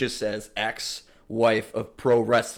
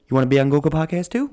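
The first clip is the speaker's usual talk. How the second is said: quick, louder sales pitch; a touch of a pushy salesman; voicing Anchor; 3 semitones higher, 6 dB louder, faster than usual. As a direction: push the extra offer like a huckster. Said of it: "He's like".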